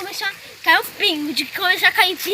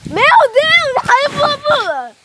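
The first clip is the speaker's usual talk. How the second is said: surprised; 9 semitones higher, 5 dB louder than usual. Real, not acted. Kids see the trampoline moving.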